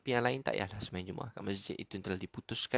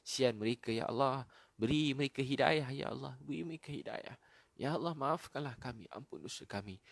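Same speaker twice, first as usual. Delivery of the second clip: earnest supplication in short phrases; pleading prayer. Real, not acted. Preacher begs God to forgive and guide others, pleading prayer. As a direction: plead for mercy, phrase endings falling away.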